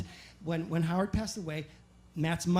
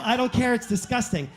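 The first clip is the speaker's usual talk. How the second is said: indignant rebuke; 3 semitones higher, 5 dB louder than usual. Retold or imitated. Repeating rebuke to woman.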